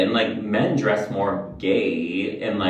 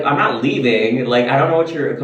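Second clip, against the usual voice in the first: insistent, slightly raised re-enacted protest; retold firm refusal; 3 semitones higher, 4 dB louder than usual. Vlogger refusing to leave for sister, insistent retold protest. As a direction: dig your heels in, retelling it.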